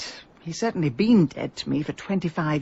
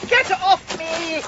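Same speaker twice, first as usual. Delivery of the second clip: high, loud and slow, pushing him away; fierce shout; 11 semitones higher, 6 dB louder, slower than usual. Acted. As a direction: shove him off with your voice. Pushing off an unwanted kiss.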